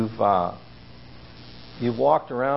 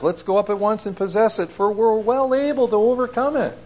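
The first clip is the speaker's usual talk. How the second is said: rallying call; 5 semitones higher than usual. Retold or imitated. Caleb urging people to take land.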